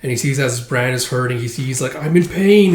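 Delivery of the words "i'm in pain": raised, louder acted cry of pain. Hero feels his brand burning, pained cry. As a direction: cry out as if hurting.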